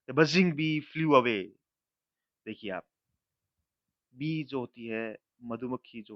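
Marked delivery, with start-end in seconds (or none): 0.1-1.5 slow, clear example sentence with buzzing stressed; teacher reading an example slowly; slow read-aloud. Shown as a demonstration. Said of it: "examples देखिए".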